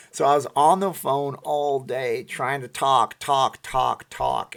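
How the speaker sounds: put-on slow, high Austrian-accented Arnold voice; Arnold Schwarzenegger impression. Vlogger recaps his day in a slow Austrian-accented Arnold voice. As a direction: drag it out in a heavy Austrian accent. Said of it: "Can't do Arnold for that long".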